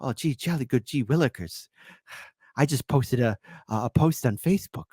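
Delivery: lightly put-on British accent of a meek prisoner; bad British voice. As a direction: badly fake a mild British accent. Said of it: "ask me to do a British voice".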